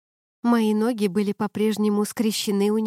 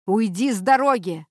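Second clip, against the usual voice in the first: a mildly raised angry order; shouting; 4 dB louder than usual. A narrator's reading. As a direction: push the words out sharply. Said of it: "закричал он".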